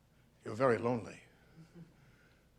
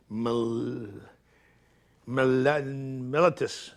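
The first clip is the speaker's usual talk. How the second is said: halting struggle; much slower than usual. Acted. Struggling with medical word.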